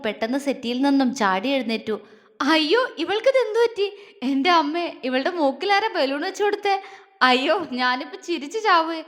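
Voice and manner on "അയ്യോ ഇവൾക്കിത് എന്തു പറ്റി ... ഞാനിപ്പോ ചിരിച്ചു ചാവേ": mocking laughter. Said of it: "Appu വയറും പൊത്തിപ്പിടിച്ച് ചിരിക്കാൻ തുടങ്ങി".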